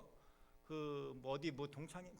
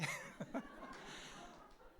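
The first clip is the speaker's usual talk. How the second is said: teary laugh; 9 semitones higher, 8 dB quieter than usual. Real, not acted. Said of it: "내가 왜 눈물이 나지".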